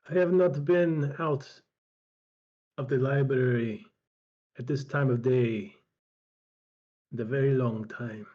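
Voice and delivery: put-on slow, deliberate old recluse; lightly voiced old healer. Old healer looks up outside his library, slow, lightly voiced. Game master voices Strabo.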